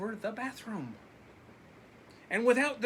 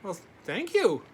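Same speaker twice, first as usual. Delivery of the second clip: put-on grateful boy; 6 dB louder than usual. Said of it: "said Laszlo".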